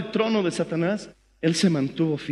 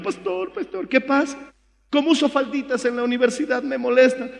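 mock whimpering church sister, higher; hammed-up crying complaint; whiny complaining sister; 5 semitones higher than usual. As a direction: imitate a tearful complaining young woman. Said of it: "Una hermana vino llorando".

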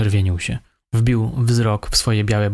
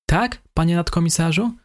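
higher, eager-to-please suspect voice; obliging; 7 semitones higher than usual. A narrator's reading. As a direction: answer the officer helpfully, higher. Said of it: "zapytał usłużnie".

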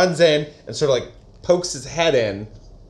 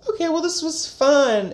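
way higher, breezy farewell; mock high chirpy voice. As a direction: toss it off lightly, pitched up. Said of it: "they're like".

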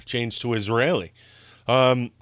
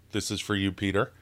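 softly, cup at the lips; talking around a sip of coffee; while sipping a drink; 3 semitones lower, 4 dB quieter, faster than usual. Real, not acted. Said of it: "I'm gonna have a sip of coffee".

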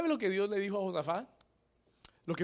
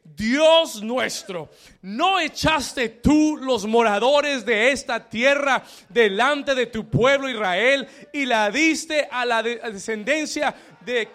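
each word weighty and drawn out; slow, emphatic scripture reading; 6 semitones higher, 11 dB louder than usual. Shown as a demonstration. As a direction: read the verse slowly and louder, leading the congregation. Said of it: "Lea el versículo siete conmigo".

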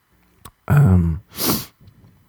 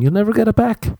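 mock dramatic warning; 12 semitones higher, faster than usual.

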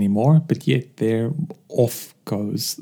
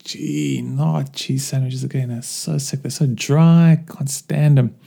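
fed-up groan; slower than usual. Retold or imitated. Worker griping over yet another cheese sandwich, exasperated. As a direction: roll your eyes and moan. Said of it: "he rolls his eyes and goes".

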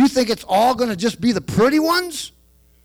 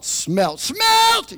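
mock yell; 14 semitones higher than usual. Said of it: "you don't yell out".

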